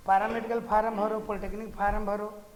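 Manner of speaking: quick, loud offhand advice; a person casually pushing forms on a student; casual advice-giver. Retold or imitated. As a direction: brush it off like a know-it-all friend. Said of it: "कोई कह देगा".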